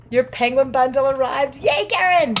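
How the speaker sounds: put-on voice cheering for Karen; mock announcer cheer. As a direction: play a cheery announcer shouting that the bundle arrived.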